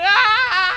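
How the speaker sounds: high, loud mock wail; hammed-up tearful shriek; crying scream. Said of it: "crying, going".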